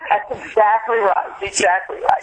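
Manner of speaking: laughing through the words, slowly; real laugh breaking into the words. Real, not acted. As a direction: chuckle as you agree. Laughing agreement with interviewer.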